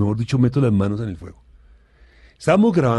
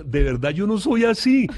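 laughing plea; 8 semitones higher, 4 dB louder than usual. Retold or imitated. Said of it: "Yo le digo".

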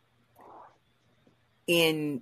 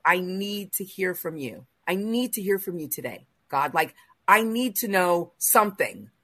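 pleading; 5 semitones higher, 4 dB louder than usual. Retold or imitated. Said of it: "and I even said to him".

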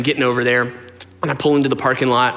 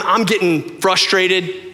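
normal talking voice

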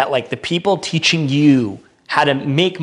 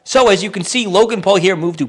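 higher-pitched mock video-presenter voice; mimicked girl vlogger; 6 semitones higher than usual. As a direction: imitate a chatty Californian girl narrating. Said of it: "'cause they're like".

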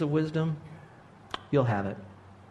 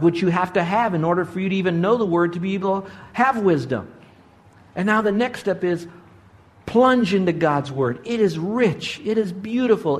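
raised, emphatic sermon delivery; fervent preaching; 5 semitones higher than usual. Real, not acted. Preacher urges believers to plunge into God's word, fervent preaching. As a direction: preach it with rising pitch and urgency.

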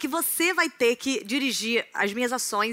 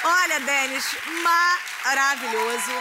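game show host; 6 semitones higher, slower than usual. Acted. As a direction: hype it up like a TV host. Plays an audition host.

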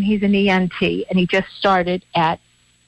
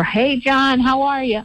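calling across the yard to a neighbor, a bit higher; yelling over; 5 semitones higher than usual. Retold or imitated. Host calling out to her neighbor John, a mild mock yell. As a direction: friendly call over the fence. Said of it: "I yelled over".

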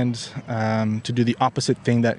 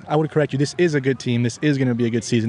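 IS stressed in "This is a good team". Real, not acted. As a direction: lean on the word is, firmly. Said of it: "corrected you about talking about".

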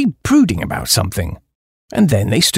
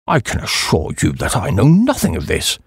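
lower-pitched, understated composure; calm and polite; 6 semitones lower than usual. A narrator's reading. Old Duke answering the chappie, frightfully calm. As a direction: keep it politely controlled. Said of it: "He was frightfully calm".

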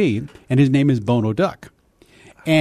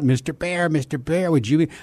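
half-hearted, softer duck practice; only sketch the little voice quietly; trying out a duck voice; 4 dB quieter than usual. Retold or imitated. Kid practising a cartoon duck alone, soft tentative voice. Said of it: "I try it out".

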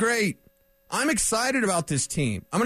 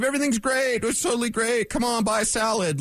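mock booster pitch, a little higher; mock super-positive; 4 semitones higher than usual. Host mimicking salad-selling media boosters, mock super-positive. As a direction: sell it as falsely upbeat. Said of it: "Don't be super positive".

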